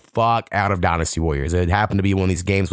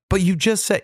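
put-on whiny kid protest; 11 semitones higher than usual. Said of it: "you can tell Sai's like".

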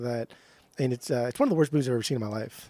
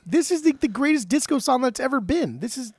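excited yelling; 10 semitones higher than usual. Real, not acted. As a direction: shout your praise to win the argument. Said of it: "why are you yelling at me?".

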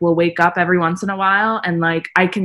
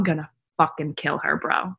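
hushed, annoyed whisper; 3 semitones lower, 8 dB quieter than usual. Retold or imitated. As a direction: whisper it through your teeth. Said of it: "you whisper and you said".

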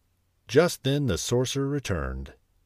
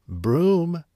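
sharp, high command to the broom; commanding call; 8 semitones higher, 3 dB louder than usual. Acted. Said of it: "he commanded".

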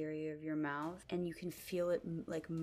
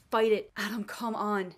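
loud, pressing command; urgent loud plea; 4 semitones higher, 10 dB louder than usual. Acted. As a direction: push him to fight back, hard. Naya urging possessed Adam.

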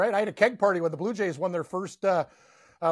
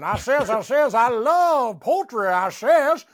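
high, louder, slow Southern rooster drawl; Foghorn Leghorn; 5 semitones higher, 7 dB louder, slower than usual. Retold or imitated. Buddy hears the Foghorn Leghorn nickname, rooster voice. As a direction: ham up the cartoon rooster. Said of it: "they don't call me Foghorn Leghorn".

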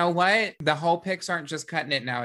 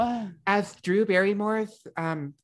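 Drew Barrymore impression. Host playing an offended assistant, lightly voiced actress impression. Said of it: "are we doing Drew Barrymore accents".

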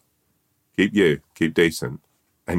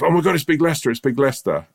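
surprised shout; 10 semitones higher than usual. Acted. Tourists spot the famous alligator.

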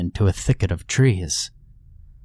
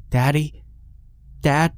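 frightened calling out; 7 semitones higher than usual. Acted. Girl calls out in dark.

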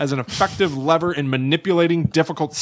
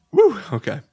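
laughing; 7 semitones higher than usual. Real, not acted. Both laughing hard.

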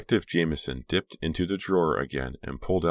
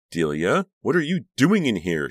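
high, loud, indignant demand; shocked, sharp questioning; 8 semitones higher, 6 dB louder than usual. A narrator's reading. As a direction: demand an answer, voice shooting up. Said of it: "she demanded".

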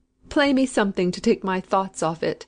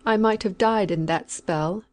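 sullen reproach; slower than usual. A narrator's reading. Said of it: "with sullen reproach in her voice".

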